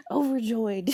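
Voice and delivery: laughing. Real, not acted. Laughing at her own joke.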